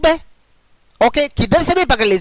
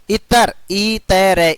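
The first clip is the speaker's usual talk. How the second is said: इतर drawn out syllable by syllable; slow deliberate teacher demo of इतर; slow sounding out; 3 semitones lower, much slower than usual. Shown as a demonstration. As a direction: spell out इतर slowly for the class. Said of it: "इत्र नहीं होता".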